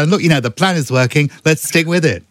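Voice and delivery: brisk, chirpy Rishi Sunak voice; quick upbeat prime minister voice; Rishi Sunak impression. Shown as a demonstration. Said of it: "You're Rishi Sunak".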